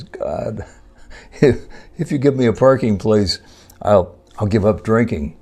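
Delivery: a mock-desperate driver making a deal with heaven; pleading prayer. Man praying to God for a parking space, hammed-up pleading.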